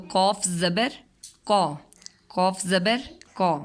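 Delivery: slow, sung-out letter drill with rising زبر; phonics drill. Shown as a demonstration. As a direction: spell each letter out for a child, then say the sound. Teacher drills letter sounds. (آہستہ آہستہ حروف کی مشق)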